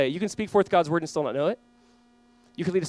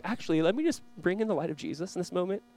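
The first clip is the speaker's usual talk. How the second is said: softer, understated counter to yelling; gentle offer; 6 dB quieter than usual. Acted. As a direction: offer it quietly after the mock outrage. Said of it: "And be like".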